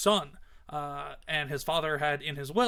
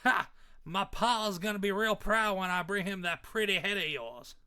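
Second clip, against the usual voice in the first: put-on Southern redneck accent; 3 semitones higher than usual. Redneck gloats about pleasing his pa, Southern accent. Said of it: "accent for him came in".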